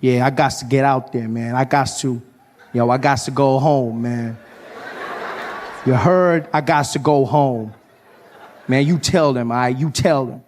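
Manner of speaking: heartfelt African American dude voice; earnest American comedian. Acted. American comedian giving a motherland speech to a South African, earnest voice. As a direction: make a solemn, rambling homecoming speech. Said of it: "started giving me this speech".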